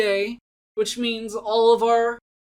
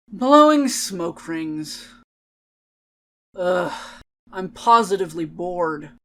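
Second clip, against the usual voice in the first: bored; 2 semitones lower than usual. Acted. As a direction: drag through it, utterly bored. Reads bored poem in character.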